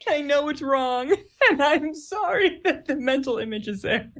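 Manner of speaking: real giggles through the words; laughing apology. Real, not acted. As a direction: apologize while cracking up. Giggling apology for baguette image.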